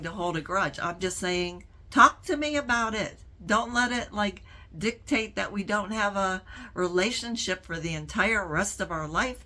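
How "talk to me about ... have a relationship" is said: retold appeal. Sister replaying her appeal to an estranged brother, urgent. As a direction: urge him to talk, as if replaying it.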